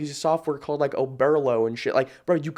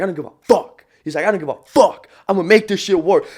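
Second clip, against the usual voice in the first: louder, defiant declaration; defiant quote; 3 semitones higher, 7 dB louder than usual. Retold or imitated. Retelling his homeless client's vow to the podcast host, loud and defiant. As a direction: shout it like nothing will stop you.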